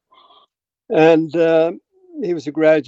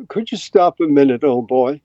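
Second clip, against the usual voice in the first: imitated upper-class English accent; lightly mimicked upper English accent. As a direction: retell it as an upper English professor. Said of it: "upper English, uh, accent".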